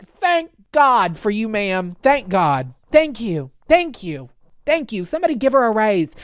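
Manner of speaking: gushing gratitude. Retold or imitated. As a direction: thank her like a rescuer. Gushing thanks to flight attendant.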